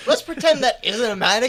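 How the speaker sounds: mock shout.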